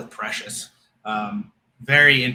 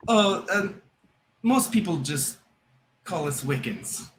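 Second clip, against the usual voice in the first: lightly amused, higher start easing down; slightly giggly smile; 5 semitones higher than usual. Acted. Nun answering what religion that is, slightly giggly smile. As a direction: answer a little sheepishly, with a smile. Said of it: "little giggle smile thing".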